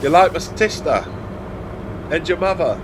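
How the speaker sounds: jokey high-pitched teasing read; mock high voice. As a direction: pipe it up high, teasing the chat. Reading chat's mum jokes aloud.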